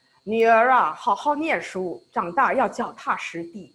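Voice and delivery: a hint of a stern Mandarin-speaking father; lightly voiced strict dad giving advice; mild impression of a father lecturing his daughter; imitating dad. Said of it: "This is how my dad used to sound".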